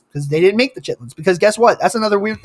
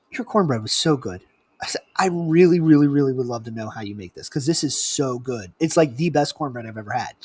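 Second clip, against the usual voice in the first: low, very soft pleading; hushed, lowered voice, buttering someone up; gentle coaxing; 9 semitones lower, 10 dB quieter than usual. Retold or imitated. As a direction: sweet-talk someone quietly for a secret. Retold coaxing for a secret recipe.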